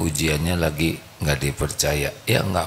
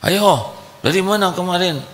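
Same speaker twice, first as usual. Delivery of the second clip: higher suspicious questioning; interrogating wife; 12 semitones higher, 3 dB louder than usual. Acted. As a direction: grill him like a suspicious wife. (istri menginterogasi dengan curiga)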